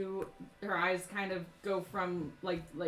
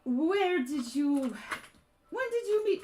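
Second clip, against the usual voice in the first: slow, raised, louder interrogation; slow, pointed questioning; 6 semitones higher, 5 dB louder, slower than usual. Acted. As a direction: draw the question out, higher and louder. GM voices a suspicious woman confronting player.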